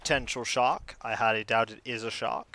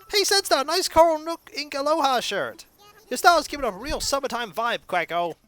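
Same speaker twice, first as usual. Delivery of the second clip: villager voice; 12 semitones higher, 4 dB louder than usual. Acted. Voices game villager lines.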